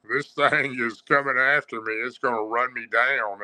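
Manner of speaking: frightened inner voice; half-laughing panic; panicked thought. Retold or imitated. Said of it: "I thought".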